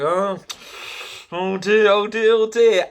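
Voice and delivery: hammed-up alarmed mechanics. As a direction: ham up the mechanics' alarm, rising each time. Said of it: "and they're going".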